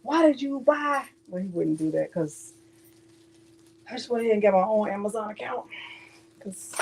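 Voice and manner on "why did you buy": mimicking Peter. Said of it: "telling Peter when he asked".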